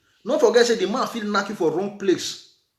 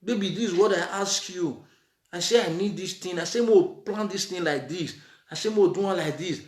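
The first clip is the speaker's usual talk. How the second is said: softer, calm partner voice; calm explaining; 4 semitones lower, 5 dB quieter than usual. Retold or imitated. Wife calmly explaining her plan to her husband, softer. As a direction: talk it over quietly with baby. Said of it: "Una so we come dey discuss".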